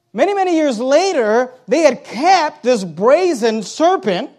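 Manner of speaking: loud scripture proclamation; forceful preaching. Acted. Preacher telling how the brazen serpent was broken, forceful preaching. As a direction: proclaim the story with weight and volume.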